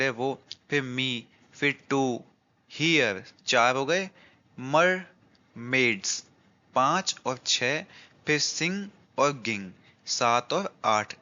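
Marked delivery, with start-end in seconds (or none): 4.6-6.2 syllable by syllable. Shown as a demonstration. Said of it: "अब आठ कैसे हैं".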